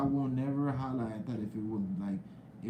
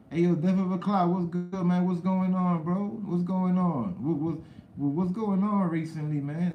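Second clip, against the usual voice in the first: loud, high greeting to a viewer; hyped shout-out; 4 semitones higher, 4 dB louder than usual. Real, not acted. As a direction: call out the name like hyping a fan.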